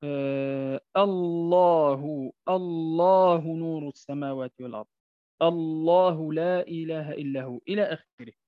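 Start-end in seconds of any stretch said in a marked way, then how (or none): 1.0-7.6 الله drawn out slow with a thick full lam; heavy lam. Shown as a demonstration. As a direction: open with a long heavy الله. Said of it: "مثال آخر". (لام مفخمة في الله)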